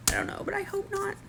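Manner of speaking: hushed hopeful aside; whisper. Real, not acted. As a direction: whisper the worry. Unvoiced whisper.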